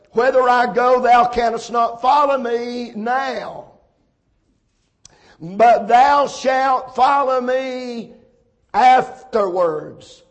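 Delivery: slow, drawn-out verse reading; scripture reading. Real, not acted. Preacher reading the verse to the congregation, slow scripture reading. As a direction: read the verse slowly, letting each phrase hang.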